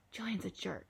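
hushed, voiceless confiding whisper. Acted. Jack confides before Julian reaches them, whispering. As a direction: whisper it so the others won't hear. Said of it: "he whispered before Julian and Charlotte".

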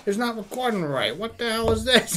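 high-pitched imitation of a drunk getting mad; mock mad. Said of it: "he's getting all mad".

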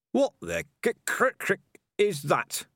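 high, stumbling splutter of alarm; stammering shock. Acted. Rat Hammond Pork spots the sword, stammering in shock. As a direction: sputter it out, too startled to finish the words. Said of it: "he said".

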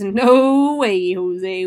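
loud, firm no way; a commanding captain overruling him; forceful refusal. Retold or imitated. Captain ordering retreat, loud.

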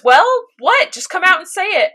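impatient, prodding him to spit it out; impatient Winry. Retold or imitated. Winry pressing Ed to finally say it, impatiently. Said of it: "And she goes".

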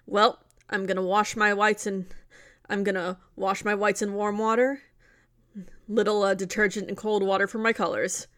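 straight-laced, matter-of-fact imitation; mildly deadpan, like an unbothered movie cop. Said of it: "it is completely deadpan, straight-laced".

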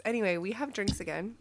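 bumping the microphone while talking; mic knocked mid-sentence; tapping the mic. Real, not acted. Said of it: "Stop hitting the microphone".

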